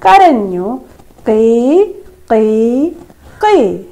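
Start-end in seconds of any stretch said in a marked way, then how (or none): 1.3-3.8 put-on chirping cry of a baby bird. Shown as a demonstration. Teacher shows class how the chick cried, bird cry. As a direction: mimic a chick's cry, three short calls. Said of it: "ബക്കൽ ഫർഹു, ഫർഹ് കരഞ്ഞു".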